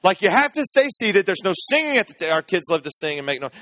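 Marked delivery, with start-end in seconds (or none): 0.2-2.3 dead-serious wife. Retold or imitated. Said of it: "as serious as she could be".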